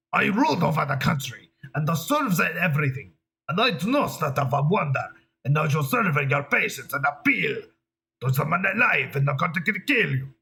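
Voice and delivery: badly faked German accent drifting Italian; Adolf Hitler. Improvising English dialogue for a dictator, mock German accent. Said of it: "that sounds like a little Italian".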